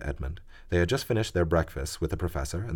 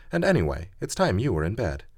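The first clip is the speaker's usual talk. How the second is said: bossy Susan; 5 semitones higher than usual. Acted. Susan bossing Edmund.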